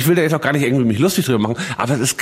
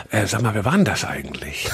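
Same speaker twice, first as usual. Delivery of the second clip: laughing quote; 5 semitones lower, 4 dB quieter than usual. Retold or imitated. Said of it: "meint so".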